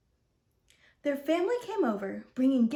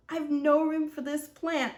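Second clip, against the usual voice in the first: mild bark; 4 semitones higher, 3 dB louder than usual. Acted. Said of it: "the man said with a bark".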